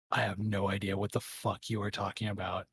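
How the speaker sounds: low, quiet, deadpan disbelief; understated, incredulous denial; baffled denial. Acted. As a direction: say it low and soft, as if they've lost their mind. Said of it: "looks at you like you've lost your shit".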